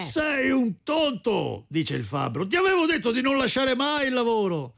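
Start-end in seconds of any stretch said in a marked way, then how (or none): 0.0-1.7 high, slow, drawn-out telling-off; acted scolding. A narrator's reading. Smith to his brother who spoiled the hammer, scolding. 2.5-4.7 high-pitched, hammed-up reproach; acted scolding. A narrator's reading. Smith to brother who left the work, scolding.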